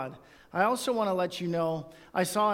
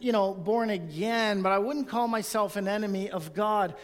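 skeptical churchgoer; 3 semitones higher than usual. Retold or imitated. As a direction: voice the objecting listener, a bit defensive. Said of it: "I know some of you are thinking".

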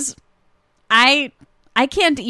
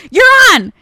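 high, loud stage call; 10 semitones higher, 7 dB louder than usual. Retold or imitated. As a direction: imitate someone calling a performer on. Retold stagehand calling the actress on.

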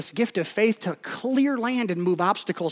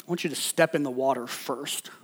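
low, soft voice of God, imitated; calm instruction; 6 semitones lower, 8 dB quieter than usual. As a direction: give the order quietly and low. God's calm instruction, acted out.

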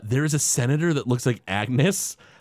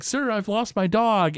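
Bart; 9 semitones higher than usual. Retold or imitated. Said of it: "Bart, who's at Kent Brockman's mansion".

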